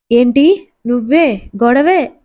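a touch of surprise, the last words drawn out slowly; lightly astonished, slowing down on the end; surprised question. Acted. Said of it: "ఆశ్చర్యంగా అడిగింది". (ఆశ్చర్యంగా, నెమ్మదిగా అడగడం)

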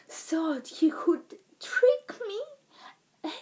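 breathless, slow, half-whispered words; panting. Acted. Pet hauling a spade uphill, out of breath and panting. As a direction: speak through heavy breath after dragging the spade. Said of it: "he panted".

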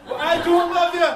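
loud, high Scouse retort; Liverpool accent. Acted. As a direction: shout it back in a mock Liverpool accent. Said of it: "continue now with, uh, Liverpool accent".

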